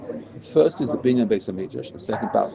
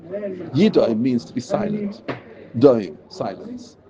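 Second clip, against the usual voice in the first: slow explaining; 2 semitones higher, slower than usual. Shown as a demonstration. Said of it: "teacher defining a word slowly".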